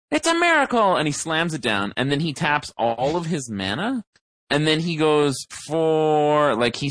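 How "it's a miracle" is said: high excited yell of triumph; excited shout. Retold or imitated. Friend slamming down his card, imitated in a high excited yell. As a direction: shout it like you just topdecked the win. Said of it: "in his excitement, he's like".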